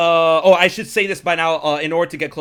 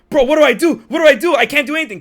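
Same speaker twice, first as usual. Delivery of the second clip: high-pitched, louder panicked protest; freaking out; 8 semitones higher, 7 dB louder, faster than usual. Retold or imitated. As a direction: act out someone panicking and helpless. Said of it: "the dude's freaking out".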